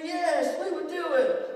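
excited classroom yes; mock kids shouting yes. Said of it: "they all screamed".

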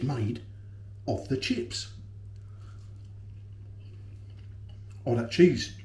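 speaking between chews; talking while chewing. Real, not acted. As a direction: mouth partly full of chip. Seen 0: Bites chip at -3s, still chewing through early words, then clears.

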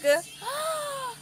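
high, startled mock gasp. Mock shocked gasp at the teasing. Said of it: "And then I'm like".

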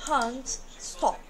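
"Hand, stop" with back-of-throat vowels; British vowels. Shown as a demonstration. Teacher reminding students of the British vowels. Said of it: "Coloca o dedinho aqui".

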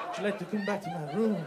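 a hint of a French seducer voice; lightly put-on French accent, inviting; mock French accent. Comedian propositions audience member in a faint mock French accent. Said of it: "I've gone French there".

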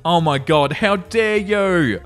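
slow, drawn-out how dare you; mock outrage. Real, not acted. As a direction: stretch it out in fake shock. Reader's mock outrage at post.

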